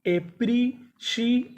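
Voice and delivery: stretched slowly and high, syllable by syllable; slow drawn-out model word. Shown as a demonstration. Teacher models the word slowly for students, drawn out. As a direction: draw the word out slowly for pupils to copy. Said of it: "तो meaning क्या बनी?".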